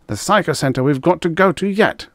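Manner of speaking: husband home from work, fuming at his wife; angry outburst. Acted. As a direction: vent the fury at his wife.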